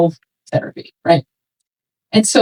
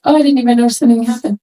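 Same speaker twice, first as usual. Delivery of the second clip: hurried pretend indifference; fast, forced nonchalance; much faster than usual. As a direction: rattle off a breezy denial quickly. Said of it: "you were like".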